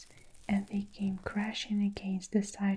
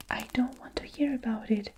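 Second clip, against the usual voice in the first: fast, panicky whispered protest; mock frightened shriek; 2 semitones higher, faster than usual. Blind earthworm refusing to hear more, fast frightened whisper. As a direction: blurt it out quickly in a scared hush. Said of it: "shrieked the poor blind earthworm".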